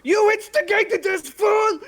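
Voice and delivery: slow menacing snarl. Acted. Character snarls at captive.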